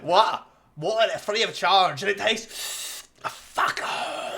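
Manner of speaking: put-on Scottish accent. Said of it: "in Scottish".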